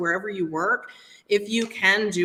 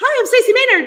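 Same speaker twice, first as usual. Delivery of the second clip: loud, high-pitched cartoon voice; 10 dB louder than usual. Retelling her intro from an old video, sounding like Mickey Mouse. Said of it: "I may have sounded like Mickey Mouse".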